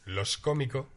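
"Los cómicos" said as "los cómico", final S dropped; Andalusian dropped S. Shown as a demonstration. Mocking the Andalusian way of saying it, final S dropped. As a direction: drop the S at the end of "cómicos". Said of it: "la segunda la que pierde la S".

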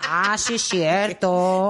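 slow, drawn-out mock realization; mock audience reaction. Host imitating viewers agreeing, mock realization. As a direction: stretch it out, imitating someone convinced. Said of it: "la gente va a decir".

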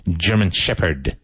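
"German shepherd" with strong G and SH; careful model pronunciation of "German shepherd", firm first consonants. Shown as a demonstration. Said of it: "be careful of your pronunciation".

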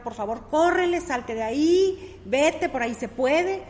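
niño gritándole al perro, fuerte; grito urgente, algo más agudo y fuerte; grito imitado. Retold or imitated. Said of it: "Le empieza a gritar al perro". (niño le grita al perro de la película que huya)

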